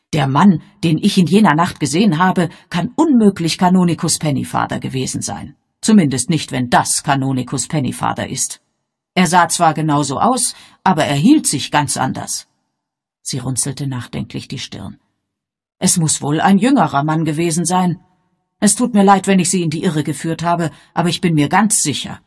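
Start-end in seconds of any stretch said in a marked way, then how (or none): 0.1-12.5 aufgeregte alte Dame, lauter. Acted. Miss Marple voiced in story. 15.8-22.2 aufgeregte alte Dame, lauter. Acted. Miss Marple voiced in story.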